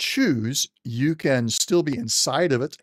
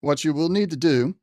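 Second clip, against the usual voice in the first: general's voice. Acted. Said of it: "trying to use the general's voice".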